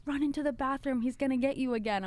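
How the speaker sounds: lightly acted urgent warning. Woman warns her to hide in the bathroom, urgent.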